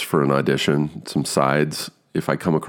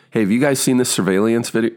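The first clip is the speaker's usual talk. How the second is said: high, bright line reading; acting an audition line; 6 semitones higher, faster than usual. Actor reading his first audition line, upbeat. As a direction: deliver the scripted line with energy. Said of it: "I step forward and I go".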